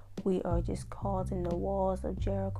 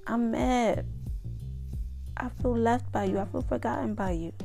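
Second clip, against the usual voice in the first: pretend prayer; 3 semitones higher than usual. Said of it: "even when you're mad".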